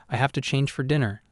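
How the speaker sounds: mildly firm, matter-of-fact; lightly firm dismissal; David ending the talk, mildly firm. Acted. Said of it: "I said firmly".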